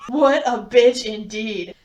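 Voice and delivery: laughing through the words, slowly; cracking up while saying it. Real, not acted. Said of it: "dying laughing".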